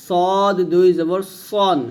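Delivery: slow, drawn-out "সদ", then a rounded "সন". Shown as a demonstration. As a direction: round the vowel to o in "সদ" and "সন". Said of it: "সন বলতে হবে".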